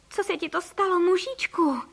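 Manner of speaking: high-pitched alarmed wife; alarmed cry. A narrator's reading. Wife to her suddenly tiny husband, alarmed cry. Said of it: "křičela paní Frejková v obličeji celá fialová".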